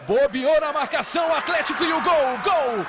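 yelling the goal at full power; goal shout. Real, not acted. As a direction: explode into the goal call.

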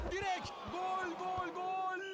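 repeated goal shout; screaming football commentator. Acted. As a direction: belt out each goal.

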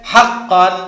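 loud, firm model for pupils; said loudly. Shown as a demonstration. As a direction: call it out for the class to repeat. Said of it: "জোরে বলেন". (জোরে, স্পষ্ট করে বলা)

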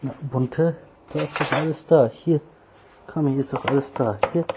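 high, loud sing-song coaxing a cat. Real, not acted. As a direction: lure the cat to the bowl, bright and up high. Coaxing cats to eat food. (hohes, lautes Locken der Katze)

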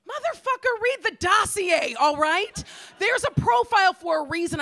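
mock exasperated rant. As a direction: vent at the clueless date. Ranting reply to date.

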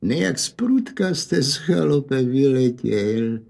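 a lightly voiced teasing old man; old man's little voice. Old man teasingly asking the father why he rushed out, lightly voiced. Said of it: "se stařeckým hláskem ptal".

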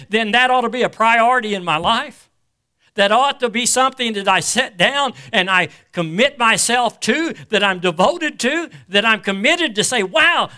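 projected, emphatic sermon delivery; preaching. Real, not acted. Preacher urging the congregation to abide in the word, preaching.

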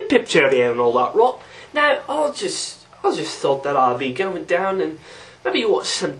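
put-on caricatured English accent with swooping pitch; hammed-up English accent. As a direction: do a tea-and-crumpets English accent. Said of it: "Bloody English".

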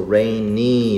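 "rainy" in two held syllables, rain-nee; pronunciation demo. Shown as a demonstration. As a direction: stretch the final ee of "rainy". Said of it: "이렇게 읽는다고 했었죠".

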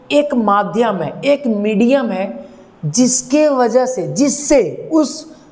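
slow, drawn-out explanation; slow teaching pace. Shown as a demonstration. Teacher to students, explaining slowly. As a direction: spell it out slowly for the class. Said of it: "मैं धीरे धीरे बोल रहा हूँ".

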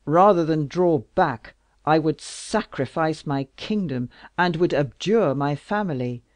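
loud, raging royal oath; exasperated king. Acted. King swearing to strike her enemies, loud rage. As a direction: swear it with fury.

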